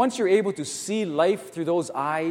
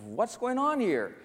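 mildly acted plea, pitched up; crying out to God; slower than usual. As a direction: call up slowly in bewildered complaint. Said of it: "he's crying out to God".

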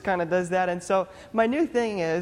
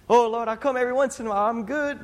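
quick, higher-pitched mock excuse to God; lightly acted, hurried self-justifying; breezy excuse; 4 semitones higher, faster than usual. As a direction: play someone brushing off commitment, fast and a bit high. Acting out a half-committed believer's excuse.

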